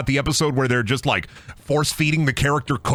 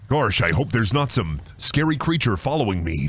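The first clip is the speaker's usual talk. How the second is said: lower, put-on worried voice; low mock worry; 3 semitones lower than usual. Streamer making fun of horror game, low mock worry. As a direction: feign worry in a low register. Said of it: "I'm making fun of this".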